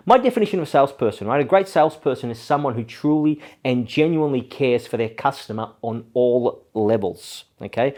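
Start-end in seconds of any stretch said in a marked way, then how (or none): 1.4-7.4 genuinely and all levels pressed firmly, the last line slowed; stress on genuinely and all levels. Shown as a demonstration. Speaker defining a great salesperson for viewers, stressing key words. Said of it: "I stress the words genuinely and on all levels".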